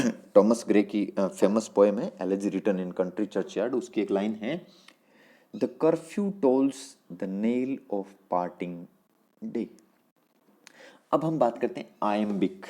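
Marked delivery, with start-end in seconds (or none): 5.6-9.7 reciting verse. Shown as a demonstration. Quotes a line of the poem.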